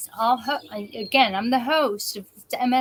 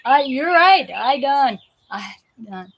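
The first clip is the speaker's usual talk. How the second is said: giddy laughing agreement; 2 semitones higher, 7 dB louder than usual. Retold or imitated. Speaker laughing back at the cashier, loud and giddy. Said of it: "And I just started laughing".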